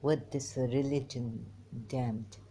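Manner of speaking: put-on emphatic Irani Arab accent. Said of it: "my Irani Arab way".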